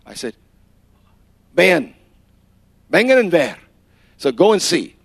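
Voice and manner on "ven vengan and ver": calling out. Retold or imitated. Calling the leaders over.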